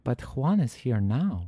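slow, lightly put-on Spanish accent; affected touch of a Spanish accent. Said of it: "you even put on a goddamn accent".

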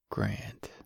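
name breathed out on a sigh. A narrator's reading. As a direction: exhale it, no voice. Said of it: "Royce sighed".

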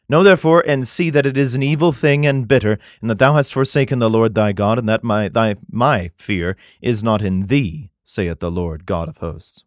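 measured, solemn Bible reading; scripture reading. Acted. Comedian reads Jeremiah to his audience, solemn scripture reading. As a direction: read it like King James scripture.

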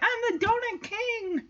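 high, proud goofy dog. Retold or imitated. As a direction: crown yourself the donut king. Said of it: "And he's like".

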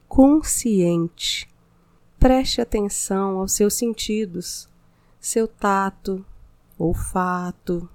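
soothing spa voice, unhurried pauses; mindfulness meditation. Acted. Meditation continues.

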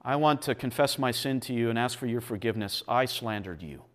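sincere confession. Shown as a demonstration. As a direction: confess humbly and plainly. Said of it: "we go to one another and say".

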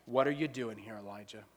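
almost hush it, close and low; still small voice. Acted. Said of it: "a still small voice".

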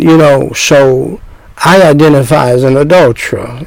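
low, slow mock-sincere confession. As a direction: drawl it out like a foolish sinner owning up. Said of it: "that's how you sound".

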